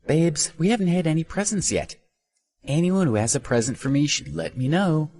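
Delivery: put-on high, coaxing girlish plea; pouting streamer. A narrator's reading. Streamer coaxing viewers for presents, high pout. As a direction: pout prettily and angle for presents. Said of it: "pouted at the camera".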